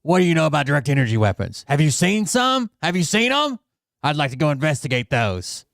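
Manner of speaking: high, excited whoa whoa as the keen cop; squeaky, overeager policeman voice; eager cop impression. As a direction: mimic the cop getting hooked, voice jumping up. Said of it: "and the cop's like".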